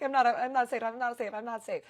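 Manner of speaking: high, repeated mock-panic plea; panicked. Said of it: "No, I'm freaking out".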